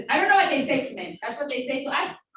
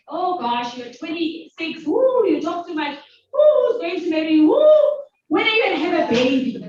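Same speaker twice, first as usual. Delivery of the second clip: mock nagging elders; 3 semitones higher, 5 dB louder than usual. Mimicking society's nagging.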